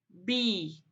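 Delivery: teacher sounding out "Bilhete"; syllable by syllable. Shown as a demonstration. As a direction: break "Bilhete" up with long pauses. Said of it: "por sílabas e monte as palavras".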